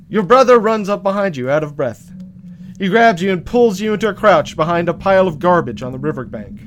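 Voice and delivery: measured second-person storytelling; story narration. A narrator's reading. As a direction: set the scene with mock gravity.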